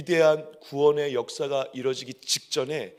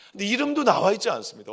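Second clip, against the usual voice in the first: usual speaking voice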